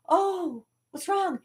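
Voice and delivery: high-pitched worried gasp of words; alarmed little kid. Retold or imitated. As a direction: ask in a high, frightened child's voice. Voices her alarmed childhood self.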